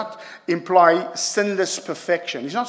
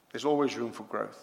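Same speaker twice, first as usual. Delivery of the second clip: soft echo; 5 semitones lower, 8 dB quieter than usual. Real, not acted. Preacher repeats point softly.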